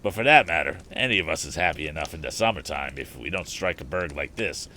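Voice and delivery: a hint of a rough tramp, proud of his trade; slangy hobo bragging to Tom; easygoing vagrant, mildly voiced; lightly voiced hobo. Hobo speaks in dialect.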